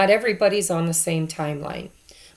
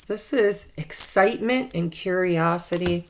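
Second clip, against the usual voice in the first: ordinary delivery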